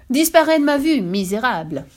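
a high, loud screaming order; furious shout. Acted. Tsarina screaming at her husband to leave. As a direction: scream him out of the room. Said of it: "hurla la vieille femme à son adresse".

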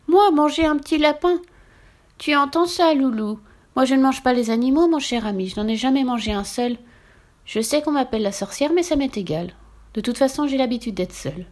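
a witch scoffing, then admitting loneliness. Acted. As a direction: witch voice from mocking to wistful. Witch laughs off eating animals.

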